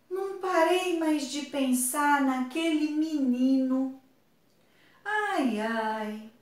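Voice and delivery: lightly acted lovesick musing, ending in a sigh; lovestruck girl. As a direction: muse like a smitten schoolgirl. Comic character in love, read aloud. (menina apaixonada, levemente encenada)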